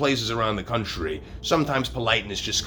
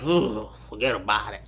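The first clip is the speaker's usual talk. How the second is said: put-on Brooklyn accent. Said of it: "you're like".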